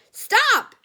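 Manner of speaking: high frantic shout; yelling. A narrator's reading. Grandma yelling at Joe to stop the elevator, loud shout. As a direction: scream it to make it stop. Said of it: "yelled Grandma Josephine".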